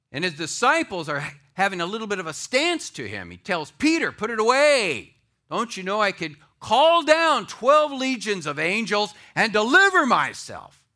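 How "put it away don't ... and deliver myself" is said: loud, high commanding rebuke; forceful rebuke. Acted. Jesus telling Peter to stand down, forceful rebuke. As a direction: raise the voice in stern command.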